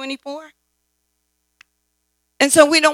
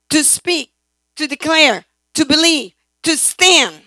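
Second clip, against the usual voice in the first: each word higher and louder; rising proclamation; 4 semitones higher, 5 dB louder than usual. Acted. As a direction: build from firm to a ringing call. Preacher builds a list of rights.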